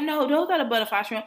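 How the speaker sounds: high-pitched mocking imitation; manager's denial. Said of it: "She was like".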